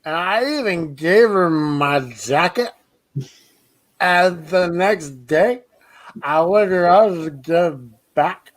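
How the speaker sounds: put-on slow, loose drunk storyteller; drawn-out drunk-guy voice. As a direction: tell it like a drunk at the bar. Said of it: "my drunk guy impression".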